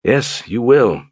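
slow, gentle reassurance; slow, tender promise. Acted. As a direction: promise it kindly and slowly. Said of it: "in a gentle tone".

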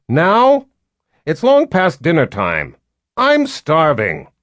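put-on high, loud whiny girl voice; petulant young queen. A narrator's reading. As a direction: whine like a spoiled young queen. Violet complains, hungry.

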